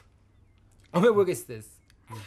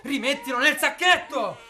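louder, higher, desperate command; shouted order; 4 semitones higher, 7 dB louder than usual. Acted. Hunter ordering partner to put the baby back, desperate shout. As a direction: bark it now, he won't listen.

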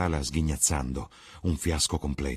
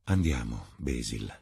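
strange tenderness; 6 semitones lower than usual. Acted. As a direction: gently lead a friend away. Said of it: "con una strana tenerezza nella voce". (Lord Henry chiama Basil con tenerezza)

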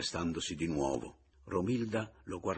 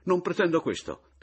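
high, loud burst of exasperation; loud, high exasperated cry; exasperated outburst; 11 semitones higher, 8 dB louder than usual. Acted. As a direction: erupt at the end of his tether. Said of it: "proruppe Pomino, al colmo dell'esasperazione".

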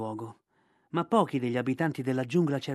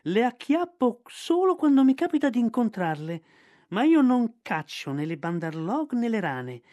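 high, louder, offended protest; indignant python Ka; 6 semitones higher, 5 dB louder than usual. Acted. Ka protests to Bagheera that he hunts no monkeys, indignant. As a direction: bristle at the very idea.

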